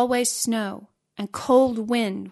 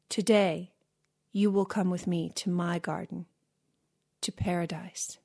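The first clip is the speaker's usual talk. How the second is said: gentle invitation; 3 semitones lower, 6 dB quieter than usual. A narrator's reading. Boy gently invites giant to paradise.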